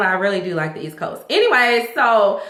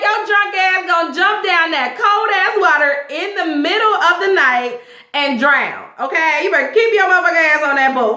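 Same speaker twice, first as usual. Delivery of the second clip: put-on high, scolding sass at a drunk man; sassy scolding; 8 semitones higher than usual. Host scolding drunk husband about jumping off yacht, high sassy telling-off. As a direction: tell him off like a sister who's had enough.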